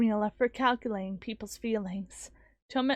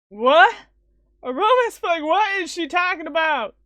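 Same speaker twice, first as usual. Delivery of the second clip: shocked; 4 semitones higher, 7 dB louder than usual. Acted. Shocked at romance flag news.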